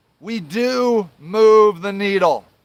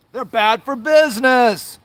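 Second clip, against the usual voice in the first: slow, drawn-out mimicry; mocking complaint; 2 semitones higher than usual. Angry ex-volunteer parroting the charity's excuse, mocking complaint. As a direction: stretch out their excuse mockingly.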